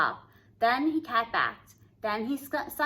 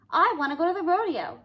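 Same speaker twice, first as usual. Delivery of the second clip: sobbing; 7 semitones higher, 5 dB louder than usual. A narrator's reading. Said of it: "sobbed Cindy Ellen".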